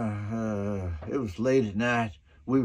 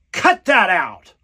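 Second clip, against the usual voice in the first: slow, loud command; director scolding; 5 semitones higher, 10 dB louder, slower than usual. Retold or imitated. Director Tobe Hooper to his actors, loud and slow. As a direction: order them to quit, drawn out.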